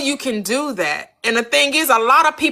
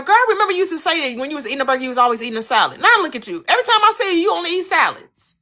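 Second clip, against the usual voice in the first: mock friend praising; 5 semitones higher, much faster than usual. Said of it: "you're going to be saying to her".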